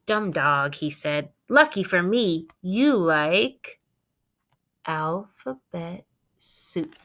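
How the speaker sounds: lightly voiced sneering crook; gloating burglar.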